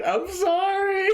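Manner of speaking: very high, stretched-out wheezy apology; imitating a buddy cracking up; mock laughing apology. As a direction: squeal it as if helpless with laughter.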